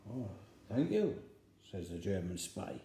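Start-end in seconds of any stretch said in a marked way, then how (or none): 0.1-1.2 a touch of put-on Welsh English accent; spy faking a Welsh English accent. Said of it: "in his best Welsh English accent".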